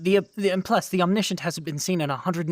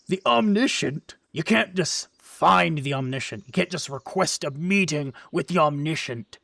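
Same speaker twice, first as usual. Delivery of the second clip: incredulous; 4 dB louder than usual. Acted. Big antlered guard scoffs at request.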